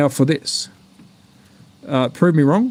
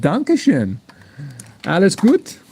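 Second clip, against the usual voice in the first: mock German; slower than usual. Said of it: "gonna try German in a minute".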